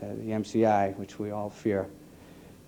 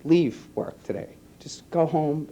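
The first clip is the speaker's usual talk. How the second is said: retold calm voice; 4 semitones higher than usual. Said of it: "with the calmest voice".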